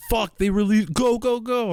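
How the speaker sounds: high, rushed panic voice; mock frantic rush. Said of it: "I feel like they were like".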